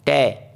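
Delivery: "टे" as one separate syllable; teacher isolating the syllable "टे"; broken into syllables. Shown as a demonstration. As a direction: sound out "टे" on its own. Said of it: "छोटे भागों में तोड़ सकें".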